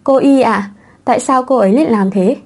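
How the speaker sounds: a touch of stunned disbelief; mild shocked question, understated; disbelieving. Acted. Little girl stunned about aunt Y, mild disbelief. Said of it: "với vẻ không thể tin được".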